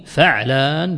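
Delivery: فعلان as fa'-laan, drawn out clearly; short "a" on the ف, then a vowelless ع in فعلان; fatha then sukun. Shown as a demonstration. Teacher summing up the pattern, فعلان said "fa'-laan". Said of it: "بفتح فسكون العين".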